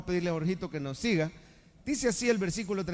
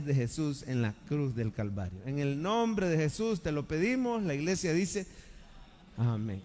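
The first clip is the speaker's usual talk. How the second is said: earnest pastoral prayer voice; 3 semitones lower than usual. Acted. Pastor praying before the sermon, earnest and devout. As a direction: pray it over the church, steady and devout.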